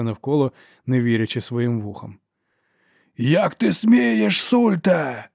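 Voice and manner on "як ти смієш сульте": very slow, high, loud roar; outraged lord roaring across the hall. A narrator's reading. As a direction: bellow it at the archlector. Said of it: "заревів лорд Брок".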